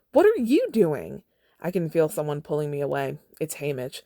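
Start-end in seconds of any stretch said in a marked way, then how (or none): 0.1-1.2 higher, louder, drawn-out repeat; slower furious shout. Acted. Katniss pressing Peeta for an answer, slower furious shout. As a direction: hammer each word, slower.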